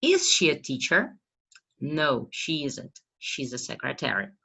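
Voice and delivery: teacher reading an example dialogue slowly; slow model dialogue. Shown as a demonstration. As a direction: question and answer read slowly and carefully. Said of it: "Outro exemplo".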